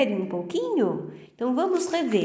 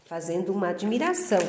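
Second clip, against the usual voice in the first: admiração; 2 semitones lower, much faster than usual. Shown as a demonstration. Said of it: "aqui no caso eu estou, né, fazendo uma admiração".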